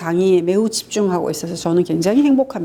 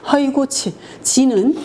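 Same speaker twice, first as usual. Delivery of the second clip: mock scoff; 5 semitones higher, slower than usual. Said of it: "그러니까".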